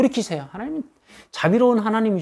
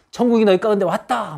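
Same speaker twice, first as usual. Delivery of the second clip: raised, high proclamation; proclaiming; 4 semitones higher than usual. Acted. Preacher acts out Jesus proclaiming the kingdom, proclaiming. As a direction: announce it like a herald. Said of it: "막 선포하시고".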